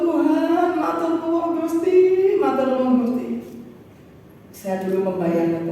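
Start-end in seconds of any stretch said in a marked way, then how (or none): 0.0-3.3 prostrate thanks. Retold or imitated. Preacher re-enacting his prayer fallen down at home, overwhelmed thanks. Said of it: "Saya tersungkur".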